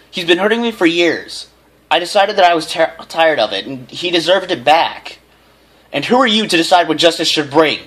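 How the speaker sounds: high, loud, pleading protest; heated argument. A narrator's reading. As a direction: argue back hard. Son and mother argue.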